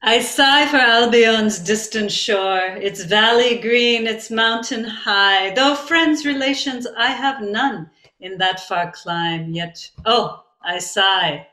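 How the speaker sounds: slow, measured poetry recital with a wistful lilt; lingering, sighing poem reading. Acted. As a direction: recite it like a sentimental Victorian verse. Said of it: "uh, poem".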